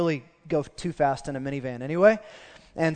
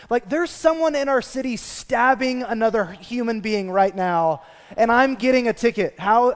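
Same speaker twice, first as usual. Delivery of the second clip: rising indignant rant, higher and louder as it builds; indignant outrage; 4 semitones higher, 5 dB louder than usual. Retold or imitated. Pastor venting in his heart after the speeding ticket, indignant rant. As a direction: vent like a wronged man who thinks he's too good for a ticket. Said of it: "I'm like".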